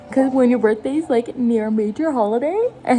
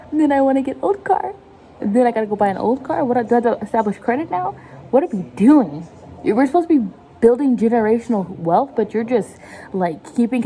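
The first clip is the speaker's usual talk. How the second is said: exasperated rant; 3 dB louder than usual. Retold or imitated. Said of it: "But I'm like".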